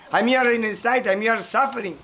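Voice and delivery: high plaintive bird voice; lamenting chick. Acted. Chick lamenting that it suffers under the dung, high plaintive. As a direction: mourn your plight as the chick.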